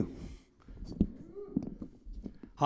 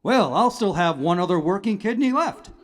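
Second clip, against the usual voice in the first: Positive Outlook; 4 semitones higher, faster than usual. Acted. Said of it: "And Mister Positive Outlook".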